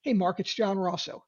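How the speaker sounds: calm falling tone. Shown as a demonstration. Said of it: "It's the same tonality".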